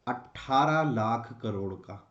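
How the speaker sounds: slow, spaced-out dictation; dictating. Shown as a demonstration. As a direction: say it slowly for students to write down. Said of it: "हम target भी लिख सकते हैं".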